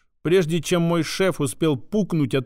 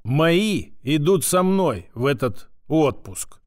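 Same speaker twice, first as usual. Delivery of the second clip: ordinary delivery, nothing marked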